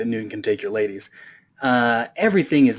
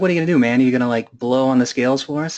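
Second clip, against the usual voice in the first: mocking taunt; 2 semitones higher, 4 dB louder, faster than usual. Baron scoffing at Newton's bare scales, loud mocking jeer. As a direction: sneer at him like he's lost it.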